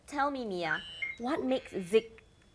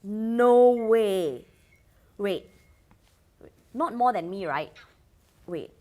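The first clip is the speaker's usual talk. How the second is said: shocked; 10 dB louder, slower than usual. Acted. Host shocked by follower count.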